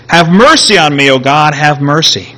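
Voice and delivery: preacher voicing an urgent prayer; crying out to God. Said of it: "he cries out to God".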